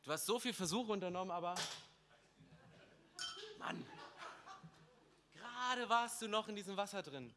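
God's voice dropped very soft, almost off mic; hushed. Acted. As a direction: speak it softly, close and tender. God speaks gently to the listener.

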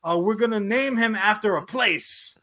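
mock the clueless execs; careless studio exec.

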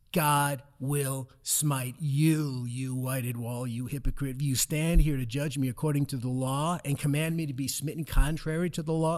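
lightly acted stern apostle scolding a guard; Paul's rebuke. Paul rebukes the guard in story.

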